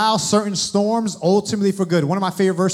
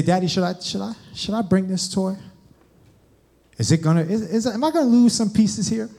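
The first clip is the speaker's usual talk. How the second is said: Aiden; 3 semitones higher than usual. Retold or imitated. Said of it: "if we would just be like Aiden".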